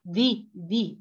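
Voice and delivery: ذي، ذي as two separate "ði" syllables; dhal with kasra. Shown as a demonstration. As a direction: isolate ذي and repeat it, showing the i vowel. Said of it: "بعد الكسرة".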